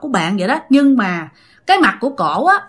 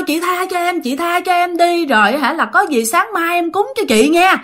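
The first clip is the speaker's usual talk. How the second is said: put-on higher, begging voice of a scared girl; higher, desperate begging for mercy; frightened pleading; 6 semitones higher than usual. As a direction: plead for your life with the ghost. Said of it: "bạn suy nghĩ rằng á là".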